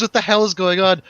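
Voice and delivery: high-pitched mock panicked yell; imitated panicked scream. Imitating the friend freaking out on the dance floor, mock scream. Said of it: "He screams".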